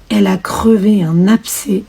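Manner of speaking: usual speaking voice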